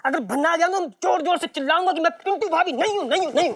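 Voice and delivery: high-pitched, rising protest; threatened outburst. Acted. Pintu threatens his partner with yelling out the truth, worked-up outburst. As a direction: protest as if about to cause a scene. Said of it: "धीरे बोल चुड़ैल".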